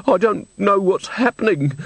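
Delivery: put-on high, tearful old woman's voice; sobbing. A narrator's reading. Distressed old woman confides in two visitors, sobbing. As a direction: wail it as if crying. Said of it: "sobbed Missus Plinge".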